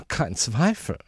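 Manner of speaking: high, affected lady's voice; certain lady. Acted. Lady passing judgement on the uncle, high and certain. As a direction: declare it knowingly in a high voice.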